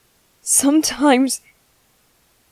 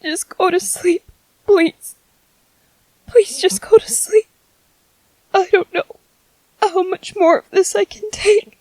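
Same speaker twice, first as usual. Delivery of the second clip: desperate plea; 5 semitones higher than usual. Acted. Exhausted begging the baby.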